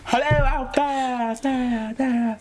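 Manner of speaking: high, slow call into emptiness; echoing tunnel. Retold or imitated. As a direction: call out into an empty cave. Calling into empty account.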